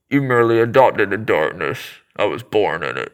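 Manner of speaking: muffled masked villain voice; Bane impression. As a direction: speak as if through a face mask. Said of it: "Let's hear the best Bane impression".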